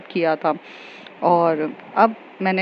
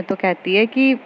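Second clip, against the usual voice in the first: ordinary talk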